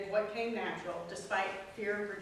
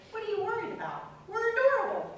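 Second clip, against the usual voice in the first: much higher, quick, cracking into laughter; laughing imitation of husband; 13 semitones higher, 7 dB louder, faster than usual. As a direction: mimic the big husband while laughing. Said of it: "football player husband said".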